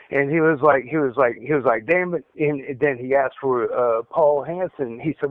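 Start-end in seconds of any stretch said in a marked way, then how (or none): 1.9-2.2 higher-pitched mock "fed up" outburst; retold exasperation. Retelling an interrogator cursing, exasperated. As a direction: quote him losing patience.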